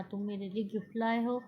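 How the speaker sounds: तुम मेरे लिए गिफ्ट लाए हो with each word given light weight, लाए most; word-by-word mild emphasis, peaking on लाए; stress on each word. A narrator's reading. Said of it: "एक एक लफ्ज़ पर जोर देकर बोलती है".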